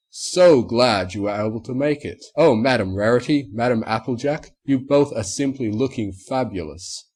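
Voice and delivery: a lightly voiced gushing showman; mildly grand stallion greeting the mares; pompous stallion host. A narrator's reading. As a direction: flatter them grandly. Narrator voices Mister Marmalade.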